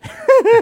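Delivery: sudden high loud laugh; real laugh bursting out; burst of laughter. Real, not acted. Guest laughing at his own joke about the host, sudden loud laugh.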